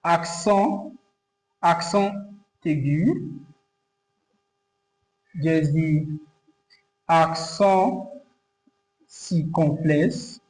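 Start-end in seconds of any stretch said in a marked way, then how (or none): 0.0-3.4 "accent aigu" in French, with pauses between the words; French "accent" lifting at the end, then "aigu"; French term. Shown as a demonstration. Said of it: "this word they call accent aigu". 7.1-10.4 "accent circonflexe" in French, slow with a long pause between words; French "accent" rising, then a drawn-out "circonflexe"; French term. Shown as a demonstration. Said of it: "every accent in French has name".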